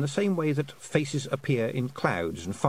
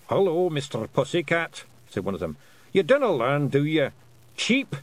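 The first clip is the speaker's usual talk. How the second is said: high, louder, cheeky Scots wee-man voice; mocking Feegle voice; 5 semitones higher, 4 dB louder than usual. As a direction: taunt the cat, then chirp like a chick. Feegles mock the cat.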